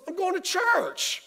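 put-on innocent kid. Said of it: "He goes".

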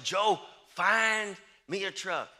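firm order. Retold or imitated. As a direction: order it slowly and loudly, like a father. Father orders son to find truck.

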